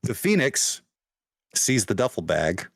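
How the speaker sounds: measured narration with suspenseful pauses; game master's scene setting. Acted. Game master revealing the Phoenix's weapon to players, measured and suspenseful. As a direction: dole it out phrase by phrase.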